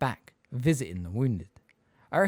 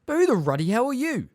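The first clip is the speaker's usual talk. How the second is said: gruff bafflement; 14 semitones higher, 7 dB louder than usual. Acted. Hagrid baffled, rough.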